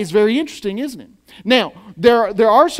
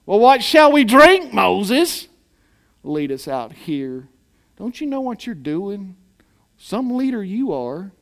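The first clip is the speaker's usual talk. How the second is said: sarcastic grumbling. Retold or imitated. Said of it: "They said it kind of sarcastically".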